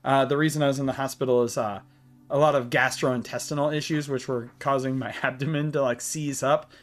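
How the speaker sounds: talking while short of breath; winded, struggling for air. Real, not acted. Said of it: "actually really hard to breathe right now".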